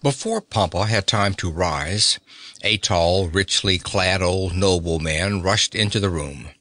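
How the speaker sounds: plain reading voice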